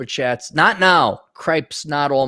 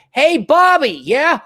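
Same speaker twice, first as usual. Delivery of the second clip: higher, louder hey Bobby; mock call out; 11 semitones higher, 4 dB louder, slower than usual. Streamer reenacting calling to a buddy at a LAN party. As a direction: call across the room.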